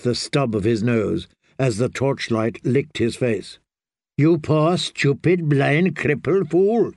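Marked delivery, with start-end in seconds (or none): 4.2-6.9 slow, spiteful snarl; snarling with malice. Acted. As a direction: spit each insult out. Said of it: "he snarled in a voice thick with malice".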